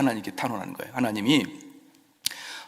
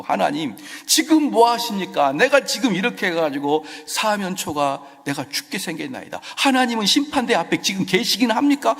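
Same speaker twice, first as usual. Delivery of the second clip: David crying out to God, pitched up and loud; voicing David's lament; 6 semitones higher, 5 dB louder than usual. Preacher voicing David's desperate plea to God, pitched up and louder. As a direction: plead like a hard-pressed king.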